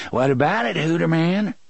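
insistent villain interrogation; pressing demand. A narrator's reading. Tick-Tock repeats question, pressing Hoots.

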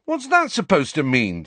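high-pitched indignant question; protest, taking offence. A narrator's reading. Friend reacts to being insulted, indignant. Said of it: "said Ron indignantly".

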